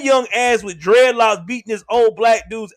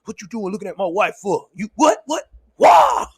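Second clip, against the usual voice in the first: jealous husband. Retold or imitated. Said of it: "one of those dudes to be like".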